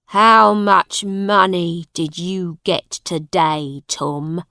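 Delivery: lightly voiced father demanding money. A narrator's reading. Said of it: "asked John Canty".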